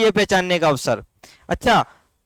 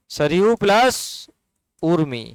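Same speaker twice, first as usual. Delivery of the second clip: slow split demo; 3 semitones lower, slower than usual. Shown as a demonstration. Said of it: "मात्रा के साथ change मत करना".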